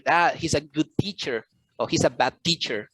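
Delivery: "teacher" stressed on TEA, the first syllable. Shown as a demonstration. Tutor shows how teacher is heard, stress on TEA. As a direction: hit TEA in "teacher", second syllable weak. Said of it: "pronounce it louder than the others".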